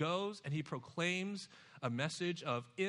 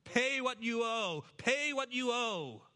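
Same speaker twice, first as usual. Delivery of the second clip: harsh demand; 4 semitones higher than usual. Acted. Voicing the violent servant.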